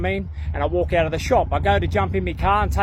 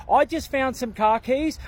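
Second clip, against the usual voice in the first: mock lady; 6 semitones higher, slower than usual. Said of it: "some lady goes".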